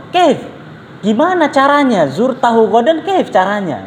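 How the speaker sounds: baffled high question as if it makes no sense; mock puzzled Libyan friend asking how; confused asking. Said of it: "Orang Libyanya ngomong".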